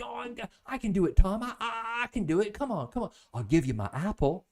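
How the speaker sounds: put-on high, fast, breathless kid begging; pleading little boy. Neighbor boy offers Tom his apple to paint, high and fast. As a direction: stammer it out like a desperate child.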